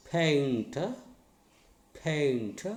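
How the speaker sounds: "Paint" as painter, long PAIN falling to a light ta; first-syllable stress. Shown as a demonstration. Teacher models for learners, "Paint" stressed on PAIN. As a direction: lean on PAIN and drop the end of "Paint". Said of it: "stress should be on".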